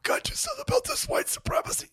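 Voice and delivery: hushed, quick mock whisper; Joe Biden. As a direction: whisper it urgently, imitating an old politician. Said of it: "by the way, he says it".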